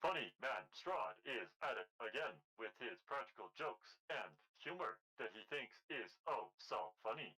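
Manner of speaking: dry sarcastic grumble. Acted. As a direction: roll your eyes at it. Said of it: "shakes his head and says aloud".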